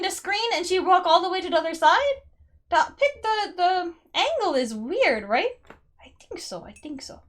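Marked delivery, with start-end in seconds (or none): 6.0-7.2 very soft, half-whispered; murmured to self. Real, not acted. Player unsure of the picture, murmuring to herself. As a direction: think aloud under your breath.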